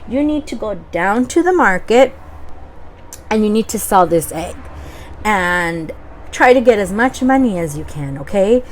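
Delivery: excited mom. Acted. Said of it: "his mom said".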